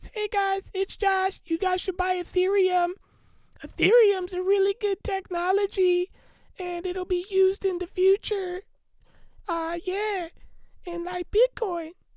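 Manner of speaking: put-on very high-pitched pre-puberty boyish voice. Showing how he used to talk before puberty: imitating his own old pre-puberty voice. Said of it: "I used to talk like this".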